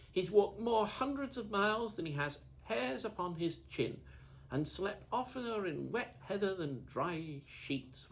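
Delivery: high, loud, indignant tirade; heated defence of his friend; furious rant. A narrator's reading. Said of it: "with a kind of fury".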